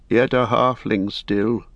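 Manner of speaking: a hint of grim scorn from an old lord. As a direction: say it with cold disdain. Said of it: "said Denethor grimly".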